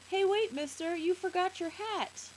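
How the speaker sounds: put-on high, urgent child's call; little boy calling out. A narrator's reading. Boy running after man with his hat, calling out. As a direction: call after someone in a small boy's voice. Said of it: "and says".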